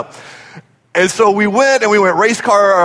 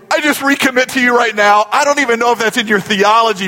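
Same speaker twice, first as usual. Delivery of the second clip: urgent praying; 5 semitones higher than usual. Retold or imitated. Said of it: "Richard starts praying through right there".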